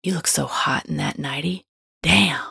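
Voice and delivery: low admiring come-on round a mouthful of toothpaste; mouth full of toothpaste. Acted. Partner flirting at bedtime in the bathroom, mouth full of toothpaste. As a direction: mumble it through toothpaste foam. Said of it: "their mouth full of toothpaste".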